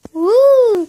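a quick high whoop; excited cheer. Real, not acted. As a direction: cheer to kick off the video. Cheering to start the video.

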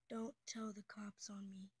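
hushed conspiratorial whisper, half-joking. Pretend. Joking to friends, don't tell the cops, whispered. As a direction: whisper it like a secret.

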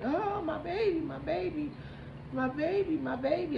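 high-pitched wailing lament; imitated wailing. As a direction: act out a parent crying out over their child. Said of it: "Lots of wailing, crying, screaming".

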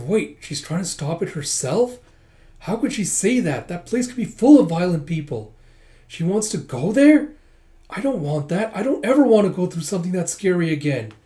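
mock alarm. Frightened character's alarmed thoughts.

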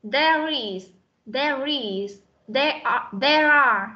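"there is" and "there are" joined through R; teacher's joined drill of "there is", "there are"; linked sounds. Shown as a demonstration. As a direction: link "there" onto "is" and "are". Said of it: "Thứ nhất là nối âm".

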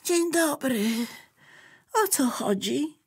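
high, unimpressed notebook voice; the notebook answers the bear, cool and unexcited; grumpy notebook. Acted. Notebook character voice.

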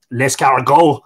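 Irish-accented French word; foreign accent in French. Shown as a demonstration. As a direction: say it like a tourist in French. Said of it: "all I can say in French is".

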